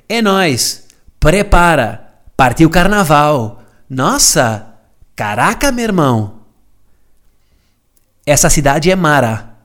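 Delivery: a light put-on Brazilian accent, slow; mock Brazilian Portuguese. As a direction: parody a Carioca Instagram caption in a Brazilian accent. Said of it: "aquelas expressões". (a imitar o sotaque brasileiro, exagerado)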